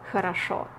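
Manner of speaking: хорошо said as "kharasho", the unstressed о turned to а. Shown as a demonstration. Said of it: "it's pronounced as а".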